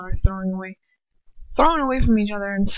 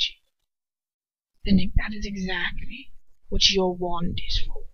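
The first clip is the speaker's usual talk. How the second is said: cold fatherly lecture. Acted.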